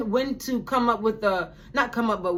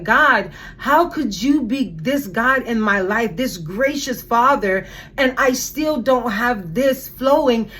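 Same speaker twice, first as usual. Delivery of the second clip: louder, forceful questioning; retold anger; 5 dB louder than usual. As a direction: demand answers from God, mildly angry. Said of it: "I was also being consumed with anger".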